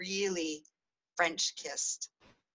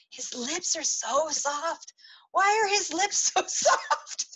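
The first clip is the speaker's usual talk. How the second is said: dreamy whisper; 10 semitones higher, 3 dB louder, slower than usual. Retold or imitated. Remembered thought during the kiss.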